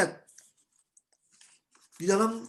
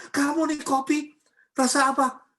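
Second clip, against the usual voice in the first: higher-pitched, slowed mock complaint; mock angry scolding; 5 semitones higher than usual. Preacher imitates worldly person angry over unsweetened coffee, scolding. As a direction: scold like a cross spouse, lightly acted. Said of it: "Marah-marah".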